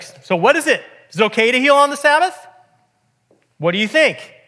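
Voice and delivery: acted-out indignant confrontation; incensed. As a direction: throw the questions out like an angry challenge, imitating. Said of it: "Jesus is just incensed. And he's like".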